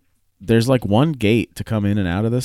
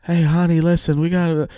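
high, raised-voice mock yell; retold yelling; 10 semitones higher, 5 dB louder than usual. Retelling a man hollering at the registration ladies, mock yelling. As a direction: imitate a pushy guy yelling, pitched up. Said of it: "starts yelling".

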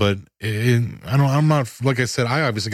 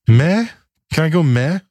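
unimpressed meh; 6 semitones higher, 4 dB louder than usual. Real, not acted. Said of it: "I'm going with a meh".

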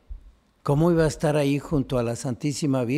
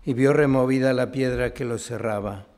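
measured liturgical reading, phrase endings dropping away; solemn Gospel reading; 3 dB quieter than usual. Real, not acted. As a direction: read scripture aloud with restraint. Gospel read aloud at Mass.

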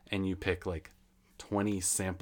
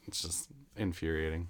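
hushed, whispered aside after a rant; whispered, worn-out annoyance; seething whisper; 2 semitones lower, 8 dB quieter than usual. Real, not acted. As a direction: drop to an exasperated whisper. Drops voice after the yelled rant.

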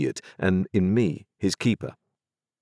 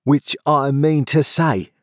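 higher, louder, slow angry challenge; Joe, crying out; 8 semitones higher, 5 dB louder, slower than usual. A narrator's reading. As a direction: square up like a fighter. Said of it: "cried Joe".

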